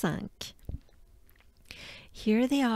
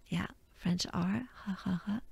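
whispered chuckle; 7 dB quieter, faster than usual. Real, not acted.

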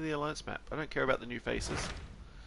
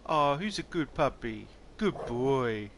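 talking to a dog; 5 dB louder, slower than usual. Real, not acted.

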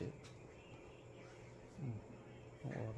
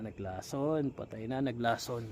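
mock lament; 6 dB louder, slower than usual. Real, not acted. Mock despair, locked out.

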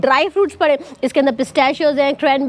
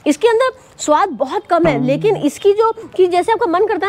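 eating between words; talking while chewing. Real, not acted. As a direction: mouth partly full of snack. Seen 0: holds sev in palm, raises a pinch to mouth mid-speech.

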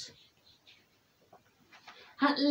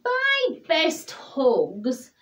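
slow, rising bear voice; slow character voice; 9 semitones higher, slower than usual. A narrator's reading. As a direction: draw it out, then lift high. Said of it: "thought Douglas".

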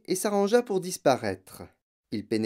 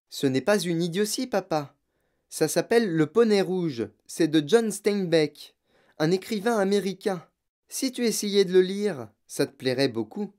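put-on lightly higher, patient girl explaining; calm little girl; 5 semitones higher than usual. Mathilda explaining her book to her father, calmly. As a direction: reason with him politely.

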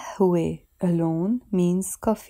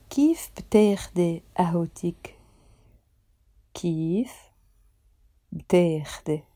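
whispered model; faster than usual. Shown as a demonstration. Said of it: "teacher whispers model".

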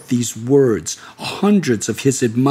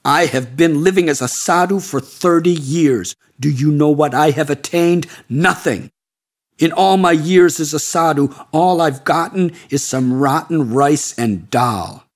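screaming tantrum. Acted. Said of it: "he screamed".

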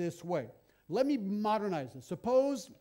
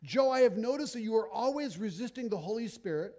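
mock accusation; 3 semitones higher, 5 dB louder than usual. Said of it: "you end it this way".

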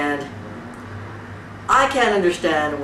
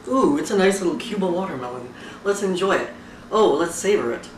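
mock dainty eater; 4 dB quieter than usual. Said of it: "you don't take a fucking little slice".

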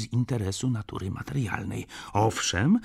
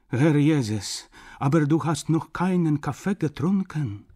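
high, louder grandmother exclaiming; old woman; 7 semitones higher, 5 dB louder than usual. A narrator's reading. Grandmother fussing over Ignaz's coffee, exclaiming old woman. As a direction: fuss over him in a raised old-woman voice. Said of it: "wysunęła się staruszka".

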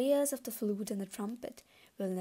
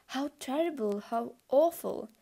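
loud lament; 4 semitones higher, 5 dB louder than usual. Acted. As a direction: wail it out over the ruined city. Mourners lament over fallen Babylon.

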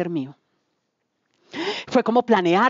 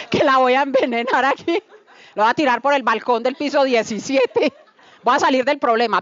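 laughing; 5 semitones higher than usual. Retold or imitated. Joking murder plan while laughing.

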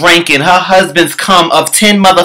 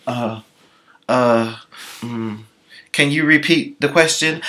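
soft, halting, lost for words; quiet mock stammering; dazed stammer; 5 semitones lower, 9 dB quieter than usual. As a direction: stall like a blanked pageant girl. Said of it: "She was like".

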